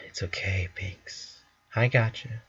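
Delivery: soft whisper, comforting; murmured. Acted. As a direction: hush her gently. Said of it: "she murmurs".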